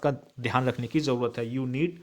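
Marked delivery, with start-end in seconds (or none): 1.5-2.0 slow dictation. Shown as a demonstration. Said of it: "teacher dictates example sentence".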